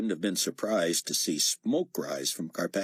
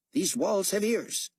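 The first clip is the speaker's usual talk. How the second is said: Carpathia voice; 13 semitones higher than usual. Acted. Carpathia warning, slowed.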